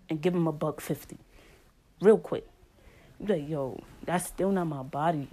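storytelling in a thick New York street accent. Shown as a demonstration. Telling her New York story time in a New York accent. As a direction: lean into the New York slang and vowels. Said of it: "in my New York accent".

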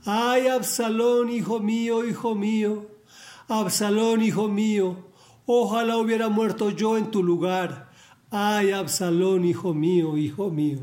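lightly acted cry of a bereaved father, starting high and sinking at the end; mournful lament. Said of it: "lloraba y decía".

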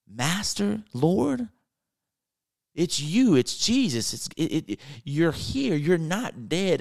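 gasping disbelief turning to excitement; amazed recognition. Acted. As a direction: act out astonished, dawning joy. Acting Mary recognizing risen Jesus.

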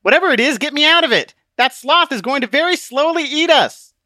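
high, loud, desperate demand; urgent panic. Acted. Christian trapped before the giant sloth, urgent panic. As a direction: pitch it way up, pleading for rescue.

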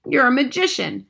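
high, loud exclamation; admiring shout. A narrator's reading. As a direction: shout the praise in delight. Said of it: "my grandmother shouted".

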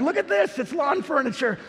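high, giddy showing off; giddy boast about lawn furniture; gleeful boast. Retold or imitated. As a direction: show off the prize like a kid. Victory lap in Lowe's.

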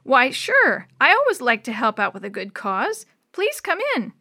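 lightly voiced kindly old neighbor; friendly old man. Voices old Mister Chambers.

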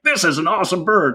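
high, excited praise of the bird; thrilled. Retold or imitated. Visiting friend admiring the downy woodpecker, high thrilled praise. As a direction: gush over the bird.

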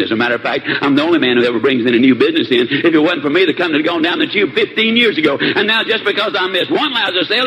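a sulking employee grumbling to himself; muttered grumbling. Acted. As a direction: grumble resentfully after being threatened. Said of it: "muttering under his breath".

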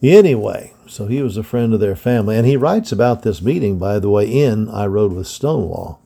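put-on steady storyteller reading an old history book; story narration. A narrator's reading. To young listeners, reading a Civil War book in narration voice. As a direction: read it out like a bedtime history lesson.

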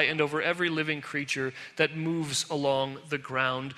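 measured, solemn reading of Genesis; scripture reading. Acted. Preacher reading Genesis to the church, solemn and measured.

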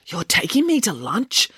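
high, eager bear question; excited. A narrator's reading. Boris is offered lunch by the agent, excited. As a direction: ask with rising excitement. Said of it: "asked Boris excitedly".

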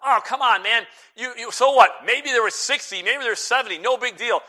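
dismissive listener. Retold or imitated. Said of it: "You say".

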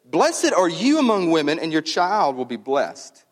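imitated exclamation, strong start then settling; exclaimed cry. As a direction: proclaim the blessing as if crying it out. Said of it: "exclaimed with a loud cry".

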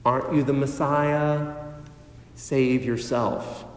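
low, soft sneering taunt; quiet ridicule. Retold or imitated. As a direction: taunt him quietly, with contempt. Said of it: "ridicule him".

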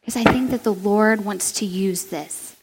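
put-on calm her child down gently; the mother soothing her upset daughter, softly; gentle mom. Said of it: "And she would go".

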